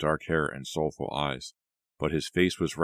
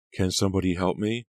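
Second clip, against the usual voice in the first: a raised call for help, rising at the end; 4 semitones higher, 4 dB louder than usual. Acted. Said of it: "the girl called from the floor".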